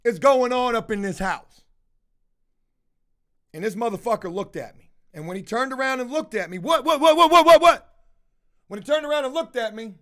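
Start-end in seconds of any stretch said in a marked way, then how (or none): 0.0-1.6 angry. Retold or imitated. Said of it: "I said". 6.6-7.9 frantic high-pitched what what what, rising loud; manic what. Retold or imitated. High roommate turning around to him, frantic manic repeats.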